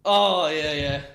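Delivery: ordinary delivery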